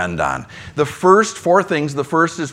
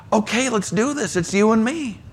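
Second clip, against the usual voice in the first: higher and softer, eager and encouraging; a quiet team-up promise; Jesus reassuring; 5 semitones higher, 5 dB quieter than usual. Acted. Jesus rallying a struggling believer, soft and encouraging.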